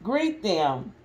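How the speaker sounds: lively, expressive picture-book reading; mother reading a Disney story to restless kids, lively and expressive; reading to children. Acted. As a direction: read it out big for the little ones. Reads Winnie the Pooh to kids.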